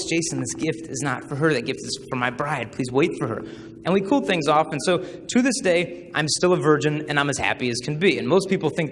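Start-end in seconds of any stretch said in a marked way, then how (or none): 0.1-3.4 inner voice. Retold or imitated. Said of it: "and then the same voice".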